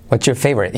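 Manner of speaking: "what's your" joined as "whatcher"; linked what's your. Shown as a demonstration. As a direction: run "what's your" together before favorite. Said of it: "o what's your". ("what's your" unido con CH)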